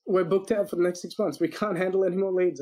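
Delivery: high-pitched, exasperated retold complaint; mock overwhelmed client. Client explaining to the marketer why, mock overwhelmed. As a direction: imitate a client swamped with work.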